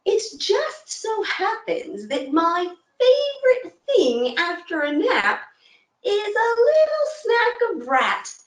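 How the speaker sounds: slow, purring cat voice, drawn out; a smug cat angling for a snack; talking cat. Acted. Storyteller as the cat, slow and drawn out. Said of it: "a very unusual thing for a cat".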